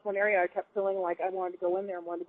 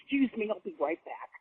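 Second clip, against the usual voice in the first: brisk, unbothered polite excuse, trailing off quieter; matter-of-fact; 2 semitones higher, 5 dB quieter than usual. Retold or imitated. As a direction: brush it off like nothing happened. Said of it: "kinda like that, just matter-of-factly".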